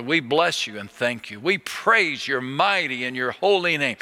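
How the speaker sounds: earnest prayer voice, rising in praise; preacher leading a public prayer. Acted. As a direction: lift it up to God in praise. Leads a prayer.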